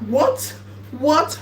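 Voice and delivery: ordinary talk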